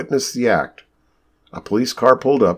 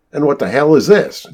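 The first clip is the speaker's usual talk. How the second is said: higher and louder, outraged; indignant demand; 8 semitones higher, 6 dB louder than usual. A narrator's reading. John to his captors about a latte, indignant demand. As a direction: bark it at the people holding you. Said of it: "John demanded of his captors".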